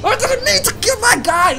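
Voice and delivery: very high shrieking nos; panicked squeal. Acted. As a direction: scream in mock panic.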